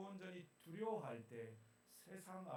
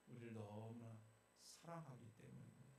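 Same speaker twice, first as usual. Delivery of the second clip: tender; 5 semitones lower, 7 dB quieter than usual. Acted. Soft contrast after loud build.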